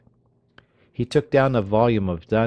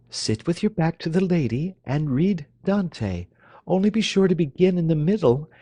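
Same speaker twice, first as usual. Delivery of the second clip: put-on teasing young lady; 10 semitones higher than usual. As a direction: instruct him with sly irony. Marionetta mock instruction.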